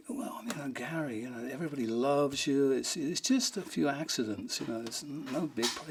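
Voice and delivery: soft, gentle reassurance; retold consoling. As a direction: talk a friend down softly. Consoling the upset drummer.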